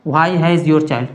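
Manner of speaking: put-on why has your child said very slowly, word by word; slow dictation. Shown as a demonstration. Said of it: "तो यानी ये आपका दोस्तों your हो जाएगा". (धीरे-धीरे लिखवाते हुए)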